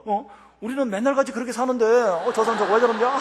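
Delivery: high, incredulous mock congregation voice; comic bafflement. Congregation baffled by the pastor's confession, comically incredulous. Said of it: "그런 얼굴로 쳐다보는 거예요".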